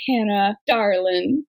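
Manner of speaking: Southern "darling", said low; Southern darlin'. Acted. Gently reproving Hannah over her ankle, Southern accent. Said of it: "we go, "Darlin," 'cause we're Southern".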